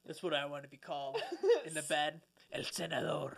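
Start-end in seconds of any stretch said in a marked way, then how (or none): 2.5-3.4 lightly Spanish "El Senador", the r tapped; Spanish accent. Retold or imitated. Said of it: "say it with the accent".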